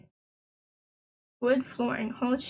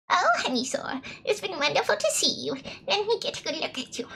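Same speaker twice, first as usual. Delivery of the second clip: put-on British granny, lilting higher; British grandma; 4 semitones higher, faster than usual. Grandma greeting her visiting grandchild, British granny voice. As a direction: play a fond British grandmother. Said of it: "why the grandma is British".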